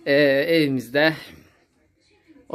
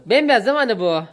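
talking to a pet; 9 semitones higher, 4 dB louder than usual. Real, not acted. Admires the white calf.

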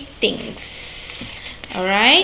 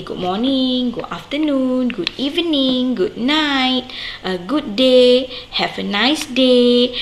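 modelled greetings; 2 semitones higher than usual. Shown as a demonstration. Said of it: "You can say".

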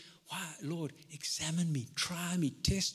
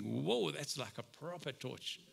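awed whoa; 5 dB quieter, slower than usual. Retold or imitated. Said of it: "And I think".

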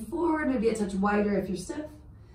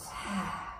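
audible sigh; 9 dB quieter than usual. Shown as a demonstration. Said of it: "Maybe let it out".

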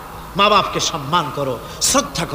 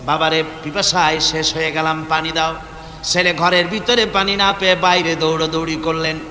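melodic sermon storytelling. Real, not acted. Preacher telling of Bayezid and his thirsty mother, melodic storytelling. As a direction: intone the tale in long melodic phrases.

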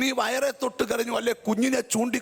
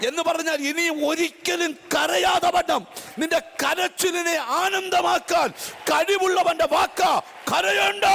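slow, rising into a shouted, higher "കരയണ്ട"; building preaching shout; 3 semitones higher than usual. Real, not acted. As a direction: crescendo to a thundered command.

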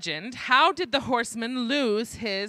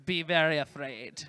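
low, hushed mock menace; mock-ominous warning; 7 semitones lower, 4 dB quieter than usual. Host warning the crowd about Strawman, mock-ominous. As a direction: lightly play up the spooky warning.

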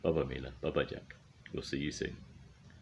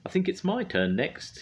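high, eager little bird; high thrush voice; 4 dB louder than usual. Acted. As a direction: chirp it out brightly. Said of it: "he, she said".

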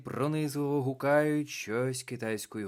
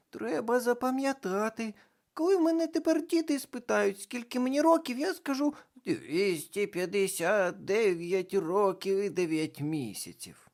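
put-on much higher, louder girl voice; young girl; 12 semitones higher, 6 dB louder than usual. A narrator's reading. Карнавальна баба Яга жартує, високий дівочий голос. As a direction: chatter like an excited girl. Girl continues her reply.

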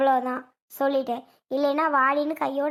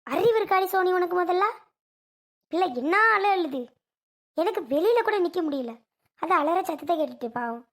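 scolding; 3 semitones higher than usual. Acted. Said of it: "ஏம்மா அப்படி கத்துற?".

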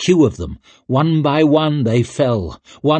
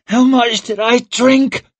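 high, strained, loud croak; 13 semitones higher, 5 dB louder than usual. Acted. Rikke waking and asking about drink, croaked. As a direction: croak the question out with effort. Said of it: "she croaked out".

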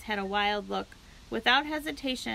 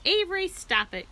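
high, sharp scolding cry; mother scolding Avery, high and sharp; cried out; 9 semitones higher, 4 dB louder than usual. A narrator's reading. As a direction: rein in a showing-off child. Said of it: "cried his mother".

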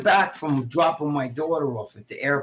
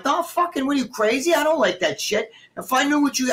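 much higher, exasperated disbelief; incredulous outburst; 9 semitones higher than usual. Retold or imitated. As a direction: blurt it out like you can't believe she'd ask. Reliving outrage at the ketamine prank.

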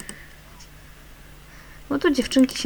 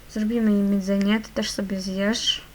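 ordinary delivery

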